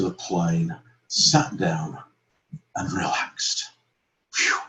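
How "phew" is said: relieved "phew". Pretend. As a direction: blow out a quick sigh of relief. Acts relief after running.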